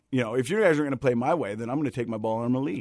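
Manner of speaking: put-on quick, sulky toddler pulling out of the game; toddler sulking. Guest mocks stubborn adults as toddlers, in a quick sulky-kid voice. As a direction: rattle it off like a kid taking his ball home. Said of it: "it reminds me of a toddler".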